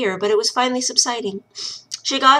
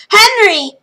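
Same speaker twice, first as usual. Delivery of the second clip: much higher, loud desperate call; shouting a name; 12 semitones higher, 10 dB louder than usual. A narrator's reading. Lil wakes and shouts for her spirit brother. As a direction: cry out for him with everything. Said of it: "she shouted aloud and within".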